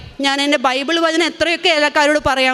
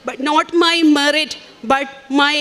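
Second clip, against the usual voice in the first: quoting the priest; much slower than usual. Retold or imitated. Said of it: "ബഹുമാനപ്പെട്ട Joseph അച്ഛൻ പറയണ പോലെ".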